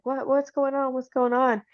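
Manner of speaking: bewildered questions, lightly imitated; mock confusion. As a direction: lightly act out a baffled wife. Voicing the confused wife being confronted.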